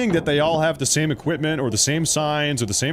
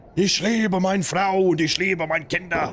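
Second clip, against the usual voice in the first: German spoken in an angry tone; 4 semitones higher than usual. Joking that angry German sounds like Hitler: angry Hitler-like German. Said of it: "If you say it angrily, you will sound like Hitler".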